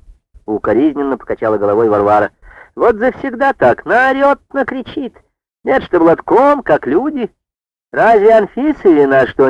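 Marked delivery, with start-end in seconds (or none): 2.7-9.5 put-on reproachful old woman. A narrator's reading. Varvara disapproving of Marfa to the women, high reproachful tone. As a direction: shake your head and tut at her.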